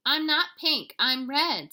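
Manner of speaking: high, loud kitten protest. A narrator's reading. Kitten correcting his Mama, high and loud. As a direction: object like a little kid. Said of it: "said Skippy".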